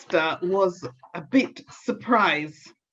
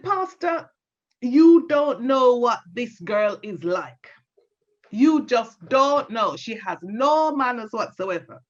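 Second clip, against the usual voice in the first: mildly vexed granny. Acted. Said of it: "She was vexed. She was mad".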